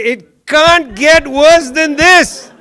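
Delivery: slow, loud, exasperated lament; exasperated exclamation. Retold or imitated. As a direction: cry it out like it truly can't get worse. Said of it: "and then you say".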